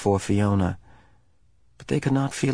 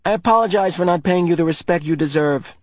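mumbled; 8 semitones higher, 4 dB louder than usual. A narrator's reading. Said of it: "he mumbled".

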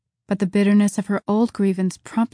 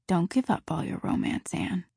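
whispered shyly; 2 semitones lower, 8 dB quieter than usual. A narrator's reading. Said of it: "he whispered shyly".

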